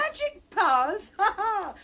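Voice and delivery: loud laughing disbelief; mocking laugh. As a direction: laugh it off as nonsense. Mother laughs at the idea.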